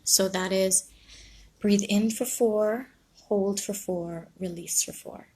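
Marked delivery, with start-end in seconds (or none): 1.6-5.3 slow, drawn-out counting that fades at the end; slow breathing count. Shown as a demonstration. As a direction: guide the breath, stretching each phrase. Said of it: "something I call four four four".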